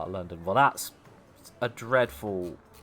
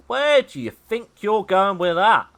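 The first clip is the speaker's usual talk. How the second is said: loud, high, drawn-out challenge; mock indignation; 9 semitones higher, 10 dB louder than usual. Gamer challenging a rival's move, loudly indignant. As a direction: call out a rival, mock-outraged.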